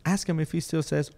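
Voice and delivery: high, loud goofy blurt; goofy excited. Retold or imitated. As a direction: blurt it out like a fool. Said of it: "stupid side of the brain says".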